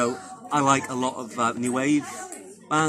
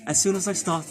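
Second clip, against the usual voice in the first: Welsh accent; 7 semitones higher, 4 dB louder than usual. Shown as a demonstration. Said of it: "in a deeper Welsh accent like this".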